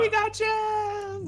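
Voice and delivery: high, drawn-out cheer; excited cheer. Real, not acted. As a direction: crow it slowly, way up high. Cheering the janitor's arrival.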